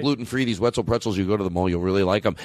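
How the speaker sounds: fast, smooth sales patter; commercial pitch. Pretend. Host resuming his pretzel plug, commercial voice. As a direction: launch straight into ad mode. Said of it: "talk about Wetzel's pretzels like this".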